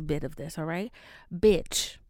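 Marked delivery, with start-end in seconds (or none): 1.3-2.0 punched out loud; loud gossip opener; loud bitch. Real, not acted. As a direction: bark it to grab attention. Building to gossip reveal.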